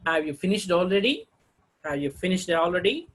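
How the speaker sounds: "already" lifted at the end as a question; rising tone. Shown as a demonstration. Teacher reading yes or no questions, rising tone. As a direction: ask it, voice climbing on "already". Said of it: "rising tone".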